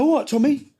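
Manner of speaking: high, sing-song mock-friendly greeting, repeated; cocky greeting. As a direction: say it again, teasingly friendly. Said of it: "And does his window".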